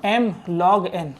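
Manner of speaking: drawn-out, very slow m log n; slow dictation. Shown as a demonstration. Teacher dictating m log n to students, very slowly. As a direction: spell out m log n word by word for note-taking. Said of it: "अब जैसे यहाँ पर देखोगे".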